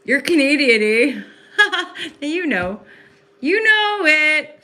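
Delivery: loud, high, delighted teasing call-out; excited greeting. Real, not acted. Spotting a Canadian viewer in chat, she calls out loudly, high and thrilled.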